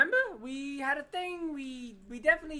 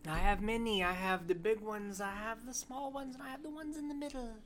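put-on little old lady voice. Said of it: "this is my little old lady voice".

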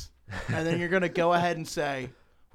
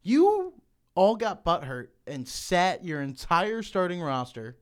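loud, slow, exasperated rant; heated rant; 3 semitones higher, 4 dB louder, slower than usual. Real, not acted. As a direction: chew them out. Ranting at Florida State.

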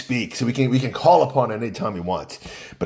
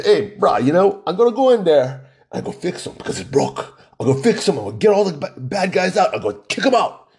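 imitating a candidate in Hawaiian pidgin; heavy pidgin accent; 4 semitones higher than usual. Local candidate telling interviewers his plan, in heavy Hawaiian pidgin. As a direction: answer in thick Hawaiian pidgin, mock-confident. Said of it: "heavy pidgin accent".

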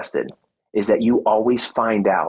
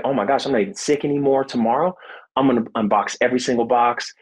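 excited rush; faster than usual. Retold or imitated. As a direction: rattle it off like you just got your second wind. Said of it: "because I was so excited".

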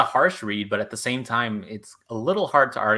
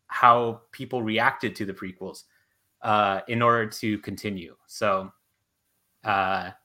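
hoarse, tiring voice; strained voice giving out. Real, not acted. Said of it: "I'm losing my voice".

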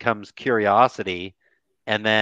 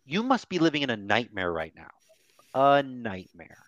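soft empathetic statement; 3 dB quieter than usual. Shown as a demonstration. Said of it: "demo empathetic statement".

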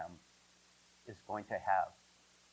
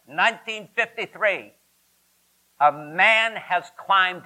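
put-on higher, crackly old British radio announcer; posh BBC wireless voice, slow and grand; 4 semitones higher than usual. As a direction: read it like a 1953 BBC newsreader. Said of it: "a crackly voice comes over the B B C".

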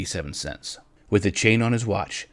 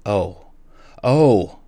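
joyful cry; 7 dB louder than usual. Acted. Della shows her husband his gift, excited cry. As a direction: start small, then burst out with delight. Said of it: "jumped up and cried".

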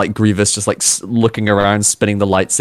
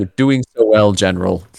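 a hint of mocking Dooku. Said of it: "mocking Dooku voice".

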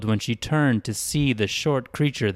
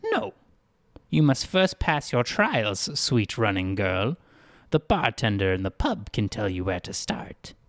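a lightly voiced, overly polite town greeter; odd cheerful greeter. Greeter welcoming a dazed girl, lightly voiced and polite. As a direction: play the greeter, hospitable and a bit strange.

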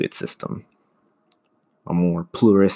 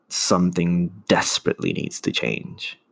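firm, unraised emphasis on "desperately"; stress on desperately. Real, not acted. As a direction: lean on the word "desperately". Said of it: "I emphasize that word".

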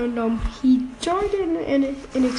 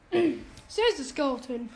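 slower and clearer, raised a little; to someone hard of hearing; slower than usual. Acted. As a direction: spell it out slowly for them. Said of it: "can you speak up".

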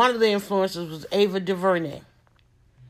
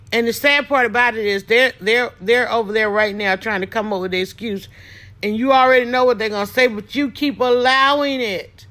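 louder, pressing rebuke; scolding those who keep allowing excuses; emphatic rant; 6 dB louder than usual. Real, not acted. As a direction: drive it home to the audience.

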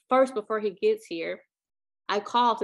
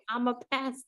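pastor voice; 4 dB quieter, faster than usual. Retold or imitated. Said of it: "he sounds like, this is definitely a pastor's voice".

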